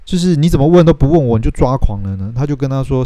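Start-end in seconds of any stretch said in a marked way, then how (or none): 0.4-2.3 又快又冲的反问，一开头就拔高; 急着反驳对方的冤枉; 生气质问. Retold or imitated. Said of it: "Nick也生气了". (尼克被误会后生气地反问凯特)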